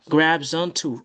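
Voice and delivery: "Grabs onto" joined as grab-zonto; z liaison. Shown as a demonstration. Teacher showing the linked form, z liaison. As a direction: carry a voiced z into onto in "Grabs onto". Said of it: "pour faire liaison comme ça".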